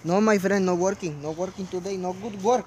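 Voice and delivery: loud, squawking cartoon duck. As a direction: shout it like Donald Duck. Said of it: "do your Donald Duck, Duck voice".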